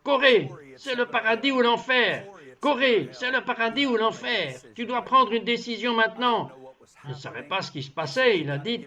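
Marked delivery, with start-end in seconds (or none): 0.0-6.5 retold shouting. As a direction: call out a friend's name in alarm, half-performed. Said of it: "criant à tue-tête".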